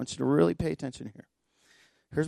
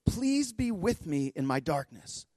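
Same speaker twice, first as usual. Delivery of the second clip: slow, soft plea pitched higher; quiet retold plea; 5 semitones higher, 5 dB quieter, slower than usual. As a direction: pray it softly and slowly, quoting her. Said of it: "she says it over and over".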